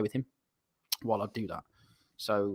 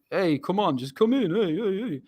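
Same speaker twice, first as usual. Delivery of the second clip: higher-pitched mock beckoning; calling someone over; 7 semitones higher than usual. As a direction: wave him in with repeated heys. Man calling him through a crowd.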